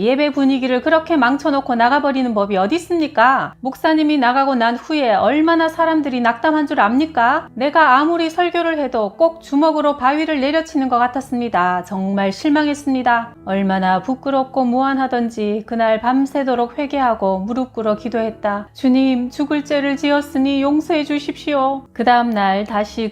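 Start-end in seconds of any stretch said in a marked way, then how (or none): 0.0-13.3 higher-pitched, restrained scolding; mild reproach. Acted. Visiting pastor rebukes the preacher for leaving, mildly reproachful. 18.7-21.8 higher, understated plea for mercy; pleading prayer. Acted. Ashamed preacher prays to the Lord, mildly pleading.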